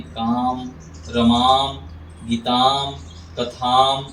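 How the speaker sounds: काम, रमाम, गीताम, कथाम each with a wide open long aa; open-mouthed long aa. Shown as a demonstration. Teacher drilling students on the open long aa. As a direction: open the mouth on every aa and hold it a little. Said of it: "थोड़ा सा मुंह को खोल के उच्चारण करते हैं".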